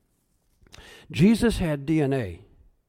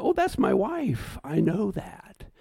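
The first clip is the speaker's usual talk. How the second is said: happy recognition; 4 semitones higher, slower than usual. Pretend. Recognizing wife in heaven.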